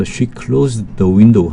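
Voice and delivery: very slow, word by word English sentence; slow dictation reading. Shown as a demonstration. Teacher reading the second example sentence to students, very slow. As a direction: spell it out slowly for learners.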